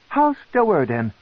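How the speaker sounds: high, reproachful matron voice; stern matron. Acted. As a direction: remind him coldly as a queen.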